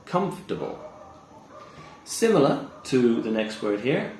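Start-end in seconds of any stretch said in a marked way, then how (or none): 0.1-0.8 COMFORTABLE as "KUMF-tuh-bull"; careful three-syllable COMFORTABLE; correct pronunciation. Shown as a demonstration. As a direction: model COMFORTABLE without the "or". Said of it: "So it's just".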